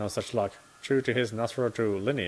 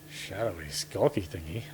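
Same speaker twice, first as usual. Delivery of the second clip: mocking repeat; 2 semitones lower, slower than usual. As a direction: repeat it back with amused disbelief. Partner repeats phrase mockingly.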